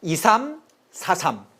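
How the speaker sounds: "이삼사삼" slowly in two pairs, 이삼 then 사삼; formation-style mnemonic. Shown as a demonstration. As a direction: pause between 이삼 and 사삼, each pair falling. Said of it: "축구 포메이션처럼 이삼사삼".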